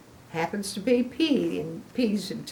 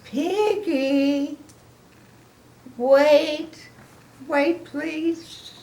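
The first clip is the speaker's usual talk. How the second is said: high, loud pleading call; high pleading cry of wait, please; 8 semitones higher, 3 dB louder, much slower than usual. Acted. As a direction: call after a friend who's leaving, begging. Gerald calling after Piggy.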